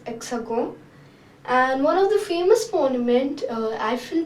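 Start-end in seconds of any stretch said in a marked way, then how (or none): 0.1-0.8 hexagon said eks-ah-GON, h silent, nasal end; French hexagone. Shown as a demonstration. Teacher giving the French word for hexagon. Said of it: "We just add an E in the spelling, it's".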